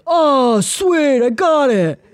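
mock kid triumph; thrilled kid. Imitating son cheering after a throw, high loud kid voice. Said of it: "And he's like".

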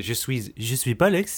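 silly put-on French voice; mock French accent. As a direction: echo the catchphrase in jokey French. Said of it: "in a French accent".

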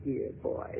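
breathy whisper, low; whispered dear boy, teasing. Acted. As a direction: whisper it close to his ear. Stella teasing Slade.

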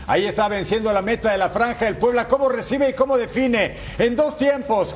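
lively highlight play-by-play; goal commentary. Acted. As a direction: call the goal replay with energy.

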